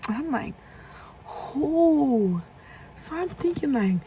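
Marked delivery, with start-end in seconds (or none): 1.2-2.4 baffled question. Retold or imitated. Asks again who it is.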